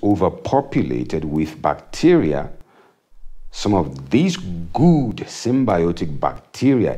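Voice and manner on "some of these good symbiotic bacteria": air quotes. Shown as a demonstration. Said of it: "in quotes".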